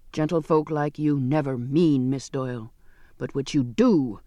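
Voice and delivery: lightly voiced surly seaman, rather low; a hint of a gruff sailor; scornful sailor. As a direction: cut her down with contempt.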